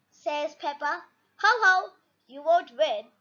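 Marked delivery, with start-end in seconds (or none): 1.4-3.1 mock laugh, then the put-down; laughing taunt. Labrador teasing Mummy Pig at the target stall, laughing. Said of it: "laughs the Labrador".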